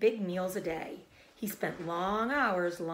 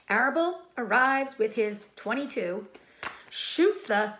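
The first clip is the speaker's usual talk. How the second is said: put-on loud, high blunt old sheep; matter-of-fact and grim; 4 semitones higher, 5 dB louder than usual. Old sheep describing the butchering, loud.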